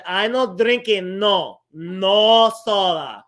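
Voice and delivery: mock grandma. Grandma denying again, slower.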